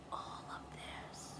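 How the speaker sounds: high breathy whisper. Real, not acted. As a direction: let it slip out as a high whisper. Whispered aside to viewers.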